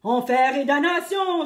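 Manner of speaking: loud pirate oath; pirate cursing. A narrator's reading. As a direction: swear it out like a furious pirate. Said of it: "s'est écrié le pirate".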